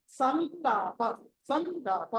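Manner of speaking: సంలాప slowly, the n held before long laa; slow nasal anusvara. Shown as a demonstration. Teacher drilling students, సంలాప with a held nasal. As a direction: stretch సంలాప into san-laa-pa. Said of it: "అని పలకాలి".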